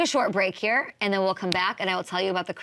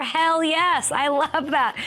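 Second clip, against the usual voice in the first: hell yes; 7 semitones higher, 4 dB louder, much slower than usual. Real, not acted. Hyped about Wilson revenge.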